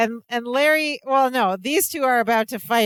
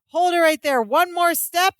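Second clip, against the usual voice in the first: mock commanding threat; 4 semitones higher, slower than usual. Larry threatening mob.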